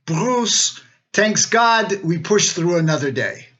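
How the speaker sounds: gently imitating father-in-law's Yiddish accent. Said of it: "in his Yiddish accent".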